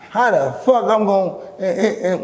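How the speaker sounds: breaks off laughing; exasperated laugh mid-sentence; laughing disbelief. Real, not acted.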